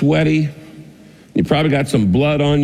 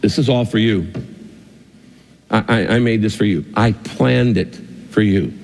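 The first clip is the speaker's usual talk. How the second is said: a hint of a tender king, lower and gentle; loving voice; 3 semitones lower than usual. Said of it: "the king says to you in a loving voice".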